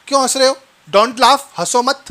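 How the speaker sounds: lightly acted telling-off of a pupil; mock scolding. Teacher to a child laughing too much, mock scolding.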